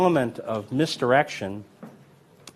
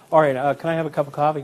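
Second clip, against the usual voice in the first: quick, higher everyday ordering voice; casual offstage chatter; 4 semitones higher, much faster than usual. Retold or imitated. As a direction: rattle it off like an ordinary diner customer. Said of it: "he didn't change his pre".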